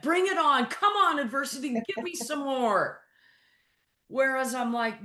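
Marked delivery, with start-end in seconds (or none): 0.0-3.0 mock eager bravado. Coach mocking the embrace-it mindset, hammed-up eager bravado. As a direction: dare adversity to hit harder, half joking. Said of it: "Embrace it means, like".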